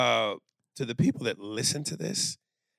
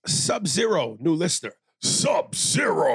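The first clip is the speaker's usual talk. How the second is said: fighting game announcer; 3 semitones higher, 4 dB louder than usual. Pretend. Mortal Kombat announcer style.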